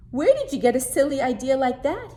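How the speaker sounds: amused laughing question. Acted. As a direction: still laughing at the silly idea. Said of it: "he asked".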